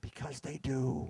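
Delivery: hushed, whispered stage aside. Complaining about strangers who decide to try it out, whispered.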